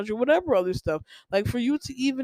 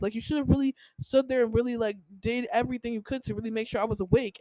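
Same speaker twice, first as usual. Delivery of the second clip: imitating mom; 3 semitones higher than usual. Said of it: "she said".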